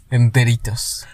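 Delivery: whispered aside; whispering. Real, not acted. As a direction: barely breathe the word. Whispered end of answer.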